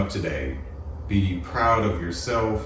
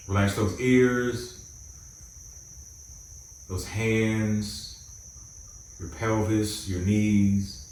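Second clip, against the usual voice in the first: calm, measured meditation guide with long pauses; guided meditation; 4 dB quieter than usual. Acted. Host guiding listeners to close their eyes and relax, guided meditation. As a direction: ease them into relaxing, phrase by phrase.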